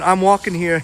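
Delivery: put-on light New York accent, I'm walking here. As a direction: toss off a New York cabbie line. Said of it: "in the New York accent".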